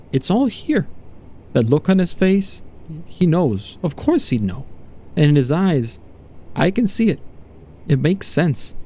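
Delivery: lightly voiced dawning revelation, pitch swooping up; a touch of stunned realisation; awestruck test subject. Subject to doctor reading the painted face, awestruck.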